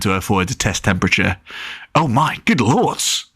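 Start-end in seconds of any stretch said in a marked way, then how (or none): 1.9-3.3 slow, high, exaggerated exclamation; copying parents. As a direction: mimic a grown-up's dismay. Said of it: "He was just copying them".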